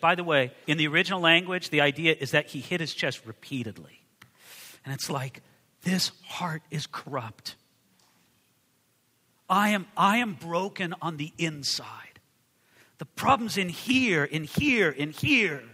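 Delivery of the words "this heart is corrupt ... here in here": soft, slow, half-whispered confession; hushed, barely voiced mock-humble admission; broken confession. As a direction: confess quietly with a broken heart. Tax collector's confession voiced.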